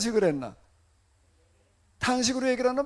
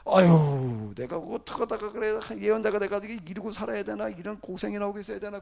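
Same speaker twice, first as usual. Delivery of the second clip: lament; 3 dB louder than usual. Retold or imitated. Preacher voicing Jeremiah on the hardship of being a prophet, groaning lament. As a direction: heave a loud sigh, then grumble on. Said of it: "뭘 탄식하는 거예요".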